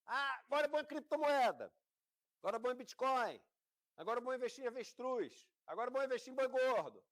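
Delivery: high, excited crowd-chasing chant; mock hype. Investors jumping on each new fad, mock hype.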